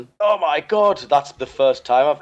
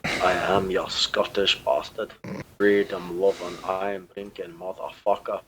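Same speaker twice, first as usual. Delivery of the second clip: mock Scottish accent; 3 semitones lower, 6 dB quieter than usual. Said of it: "You're mocking my accent".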